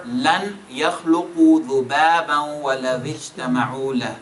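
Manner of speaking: same verse chanted in another flow; flowing tajweed reading with joined words; alternate recitation. Shown as a demonstration. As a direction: recite it again a different way.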